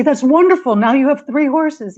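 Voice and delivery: mock delighted neighbors. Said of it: "the neighbors say".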